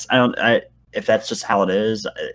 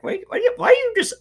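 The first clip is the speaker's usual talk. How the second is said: high mock friend voice. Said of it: "just be like".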